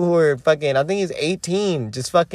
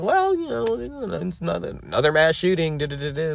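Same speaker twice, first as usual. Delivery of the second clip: dismissive mock voice; 3 dB quieter than usual. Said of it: "everyone's just like".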